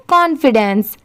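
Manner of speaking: कॉन्फिडेंस said quickly in one go; कॉन्फिडेंस fluently at speaking speed. Shown as a demonstration. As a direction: rattle off कॉन्फिडेंस fast as one smooth word. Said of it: "अब इसे speed में पढ़ेंगे".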